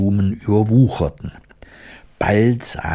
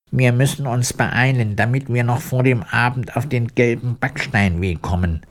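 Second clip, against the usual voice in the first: lightly voiced woodman, a little higher; Iron Woodman, lightly urging; 3 semitones higher than usual. Woodman hurrying companions on before evening, mildly urgent. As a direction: urge them on in a slightly raised character voice.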